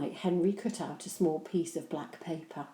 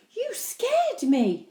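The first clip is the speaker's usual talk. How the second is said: scared; 7 dB louder, much slower than usual. Acted. Henry startled by Mum.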